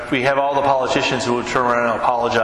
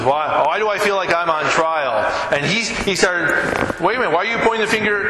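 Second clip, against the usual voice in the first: defensive; 5 semitones higher than usual. Retold or imitated. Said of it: "he got defensive".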